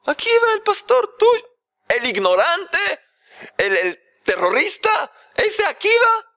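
a high, loud horrified yell; father yelling at his daughter about the shepherd, high and loud; shouting in outrage. Acted. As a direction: scream the insult at her. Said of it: "¿Por qué estás gritando?".

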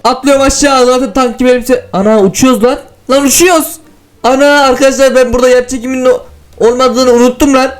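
high, thrilled squeals of flying; giddy as he floats off; excited. Real, not acted. Floating in low gravity.

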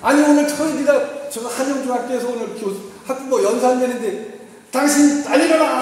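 loud, high angry scolding; wife shouting at a sleeping husband to get up; yelling. Shown as a demonstration. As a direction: nag him at full volume. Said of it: "소리 지르는 거".

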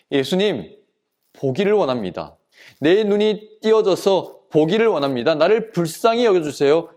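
understated pleading, building slightly; earnest plea. Acted. Blind man telling Jesus his wish, earnest plea. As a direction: plead sincerely, gently acted. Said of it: "간절히 간청했어요".

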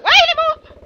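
fast, rising into a loud panicked yell; startled yell. Real, not acted. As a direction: blurt it out, ending in a shout. Panicked by an enemy in game.

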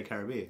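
Caribbean with stress on BE, ka-rib-BEE-an. Shown as a demonstration. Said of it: "I normally would say".

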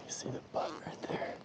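soft, near-whispered wildlife commentary; hushed spotting. Real, not acted. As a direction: point out an animal without spooking it. Quietly pointing out nearby animals.

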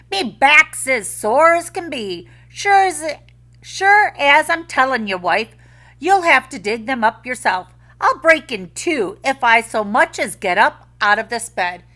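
high, loud complaining Irishman; lazy Irish husband. A narrator's reading. Lazy Jamie begging his wife to dig, high whine. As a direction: moan about your sore back.

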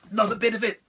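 high, wheedling devil, pleased with himself; sly devil voice. Acted. Devil coaxing Patrick with gold, high and sly. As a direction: dangle the gold like bait.

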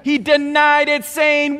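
ordinary delivery

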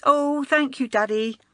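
light schoolgirl delight; bright grateful girl. A narrator's reading. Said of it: "girl thanks father gratefully".

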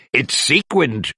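a touch of eager pride; enthusiastic. Acted. Wasp proudly pointing out her gift, light enthusiasm. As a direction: show off the sparkle lightly. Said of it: "Wasp said with enthusiasm".

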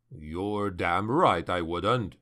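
low, slow, gruff surgeon voice; gruff doctor. A narrator's reading. Surgeon scolding his injured colonel, low and slow. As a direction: growl it like a doctor who won't budge. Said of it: "a tenor voice said behind them".

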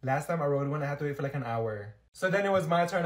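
usual speaking voice

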